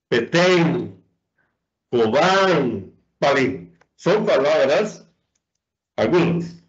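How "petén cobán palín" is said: petén, cobán, palín, each leaning on the last syllable; stress on final syllables. Shown as a demonstration. Teacher lists examples, petén, cobán, palín stressed at the end. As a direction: list petén, cobán, palín with weighted endings. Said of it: "la última sílaba es la que se pronuncia con mayor intensidad".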